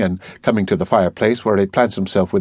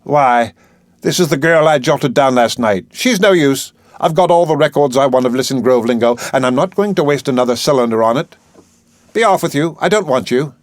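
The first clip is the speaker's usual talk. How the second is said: put-on higher, a touch of childish grievance; mildly hammed-up spoilt professor dismissing her; lightly voiced peevish brush-off; petulant Higgins; 4 semitones higher than usual. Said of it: "baby-like, making an intolerable grievance of it".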